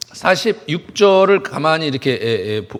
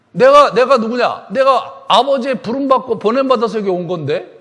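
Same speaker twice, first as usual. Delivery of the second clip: forceful retort; 4 semitones higher, 6 dB louder than usual. Acted. Acting out Jesus' retort.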